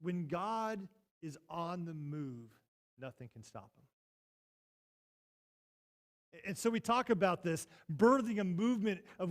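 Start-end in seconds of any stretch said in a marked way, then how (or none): 0.0-6.4 slow solemn proclamation. Real, not acted. Sermon climax line.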